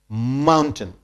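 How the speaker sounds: "Mountain" with strong MOUN and weak ten; stress on first syllable. Shown as a demonstration. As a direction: model "Mountain" for repeating, stressed at the start. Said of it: "more stress is laid on mound".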